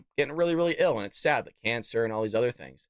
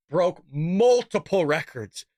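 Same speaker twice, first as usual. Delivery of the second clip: sarcastic; 4 semitones higher, 5 dB louder, slower than usual. Real, not acted. Sarcastic emphasis.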